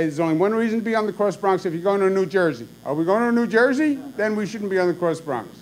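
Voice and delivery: mock exasperated father grilling his driver son; imitating an angry rant. Father scolding son over the route, mock exasperated. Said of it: "would really lose his temper".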